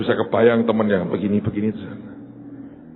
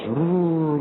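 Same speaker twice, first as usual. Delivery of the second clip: drawn-out, higher-pitched swoosh; whoosh sound; 5 semitones higher than usual. Retold or imitated. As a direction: imitate something flying down from above. Imitates angel flying down on wire.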